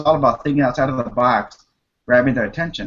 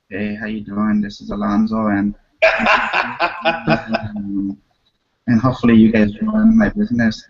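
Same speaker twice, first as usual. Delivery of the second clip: scared; 4 semitones lower than usual. Shown as a demonstration. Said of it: "I was scared the first time".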